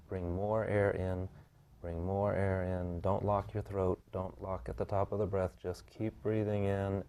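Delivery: slow, drawn-out breathing instructions; breathing cue. Real, not acted. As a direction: coach a long, unhurried inhale. Coaches client through slow breathing.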